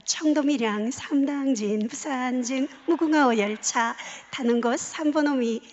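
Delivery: a hint of a railway announcer; train announcement. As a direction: mimic a polite train platform announcement. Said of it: "어떻게 하냐면 이렇게 하죠".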